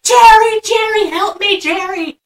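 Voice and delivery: high, loud mock cry for help; mock desperate plea. Molly calling to Jerry for help, mock terrified. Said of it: "And she's like".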